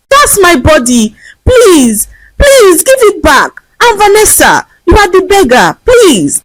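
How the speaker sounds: high, desperate tearful begging; tearful pleading. A narrator's reading. Vanessa begging the old woman for her body back. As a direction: beg her to give it back. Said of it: "burst into tears as she pleaded".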